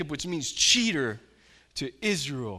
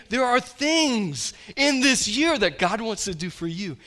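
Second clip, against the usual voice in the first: loud, high fervent preaching; preaching at full force; 8 semitones higher, 8 dB louder than usual. Real, not acted. Pastor urges his church to call on God, preaching loud. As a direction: rouse the congregation from the pulpit.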